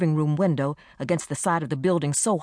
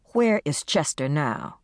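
firm; slower than usual. Acted. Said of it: "I asked firmly".

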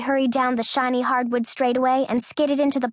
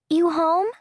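raised, higher call; 7 semitones higher than usual. A narrator's reading. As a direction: call out into the house. Calling out through the house.

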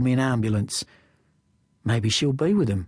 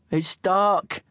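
higher-pitched, mild protest; 6 semitones higher than usual. A narrator's reading. Kid protesting to his mate, mild high protest. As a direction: object with the pitch lifted. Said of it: "I protest".

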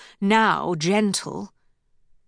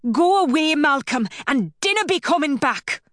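angry order; 6 semitones higher than usual. Acted. Rowena shouting at Malcolm to leave. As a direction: send him away, voice raised and angry.

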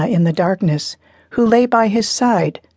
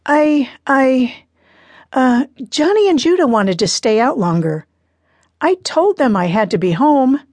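put-on nervous teen girl; 5 semitones higher than usual. Daughter voiced, nervous excuse.

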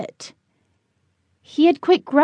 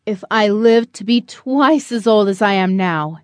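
deep creaking voice; 4 semitones lower than usual. Acted. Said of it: "In a deep, creaking voice that was barely above a whisper".

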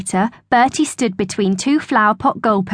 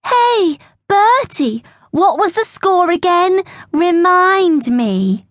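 smug schoolboy teasing in a raised voice; smirking taunt; 9 semitones higher than usual. A narrator's reading. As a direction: needle him smugly, stretching the words. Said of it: "he smirked".

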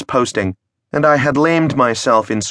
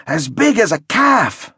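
very high, slow, awed; dramatic emphasis; 10 semitones higher, slower than usual. Acted. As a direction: stretch it out in awe. Friend repeats dramatically.

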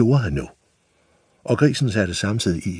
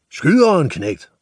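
high yelled order; screaming; 10 semitones higher, 6 dB louder than usual. Acted. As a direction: scream the demand at the boy. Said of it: "skreg slagteren".

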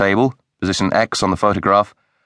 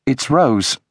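shocked; 5 semitones higher than usual. Acted. Wife finds friend dead on lawn.

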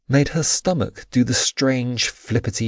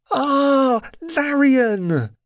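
high-pitched squeal of shock; startled, high outcry; shocked cry; 14 semitones higher, 4 dB louder, much slower than usual. A narrator's reading. Heroine cries out in shock.

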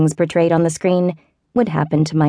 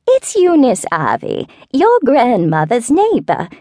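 put-on high, slow, wavering old-lady voice; a frail neighbor introducing herself, higher and slower; elderly southern neighbor; 7 semitones higher, slower than usual. A narrator's reading. Neighbor phoning with bad news, slow high old-lady voice.

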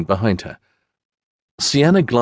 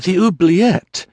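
shocked question; 10 semitones higher, 3 dB louder, slower than usual. Acted. Lady shocked at the news.

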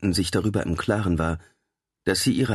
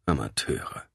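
scornful mutter; 5 semitones lower, 5 dB quieter than usual. A narrator's reading. Scoffing vampire mutters aside.

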